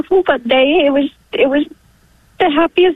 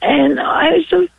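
tearful thankfulness; emotional; 3 semitones higher than usual. Real, not acted. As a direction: voice catching with real gratitude. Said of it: "wasn't expecting to get so emotional".

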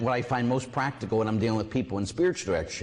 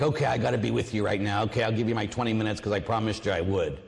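grudging duty; 3 semitones lower, faster than usual. Retold or imitated. Grudging dutiful prayer mimicked.

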